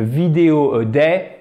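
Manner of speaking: "vidéo a day" in a flat French accent; "vidéo a day" with level French intonation. Shown as a demonstration. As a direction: say it flat and French, no ups and downs. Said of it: "c'est pas terrible".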